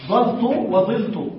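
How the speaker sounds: ظلت slowly, ظَلت then ظِلت; slow contrast ظلت with a then with i; fatha then kasra. Shown as a demonstration. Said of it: "قلت يجوز". (نطق بطيء بالفتح ثم الكسر)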